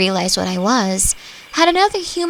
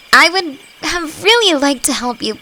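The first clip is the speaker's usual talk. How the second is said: higher, louder, apologetic; regretful; 7 semitones higher, 3 dB louder than usual. Acted. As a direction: wish you could say yes. Refusing a favour reluctantly.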